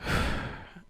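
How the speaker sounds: long breathy exasperated sigh; frustrated sigh. Real, not acted. Reader fed up with the story, a real sigh.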